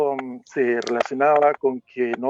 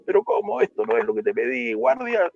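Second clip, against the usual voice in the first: a king calling his guard in outrage; angry king. Acted.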